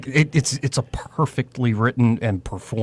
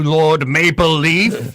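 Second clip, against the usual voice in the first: slow, louder, mock-grand address; mock noble title; 5 semitones higher, 5 dB louder, much slower than usual. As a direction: drawl it like a pompous lord. Mocking a Canadian opponent.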